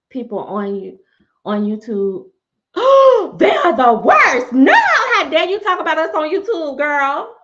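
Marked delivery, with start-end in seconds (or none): 2.7-3.3 sharp shocked gasp; big dramatic gasp; loud gasp. Real, not acted. Reacting to YouTube comments. 3.4-7.3 1 outraged. Real, not acted. Outraged at YouTube commenters.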